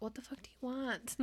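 worn-out delivery, dropped in volume; tired, fed-up. Acted. Imitating Henry finally coming out to Alex, wearily fed up. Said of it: "He's just so tired".

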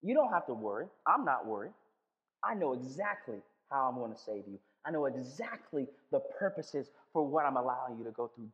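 1 calm reassurance. Retold or imitated. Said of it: "And he goes".

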